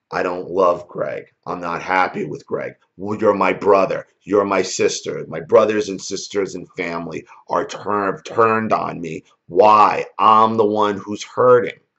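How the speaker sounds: ordinary talk, nothing marked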